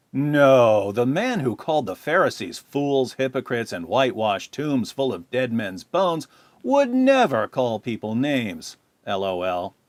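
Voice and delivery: mock denial, slowing on "call people names"; sarcastic. Real, not acted. Answering a critic's comment about Christ's behaviour, sarcastic. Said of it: "Do I detect a hint of sarcasm in my voice?".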